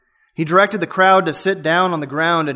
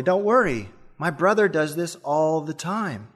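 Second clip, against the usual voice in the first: calm, a touch softer reassurance; calmly; 4 dB quieter than usual. Retold or imitated. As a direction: soothe the scared passenger, unbothered. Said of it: "The driver said calmly".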